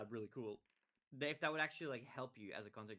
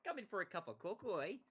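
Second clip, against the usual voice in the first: higher, hammed-up Minnesotan accent; mock nice Midwesterner; 8 semitones higher, 3 dB louder than usual. Minnesotan inviting someone in for cocoa, mock Midwestern niceness. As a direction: invite them in as an over-friendly Midwesterner. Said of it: "you'd be Midwestern, so you'd be very nice".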